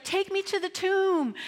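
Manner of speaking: high, insistent command; firm demand. Acted. Jesus insisting the mourners take him to the tomb. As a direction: push past them. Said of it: "he's like".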